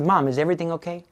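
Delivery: gently acted worry, hurried; retold concern. Son on the phone hearing mother's tears, concerned. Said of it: "He could hear the tears".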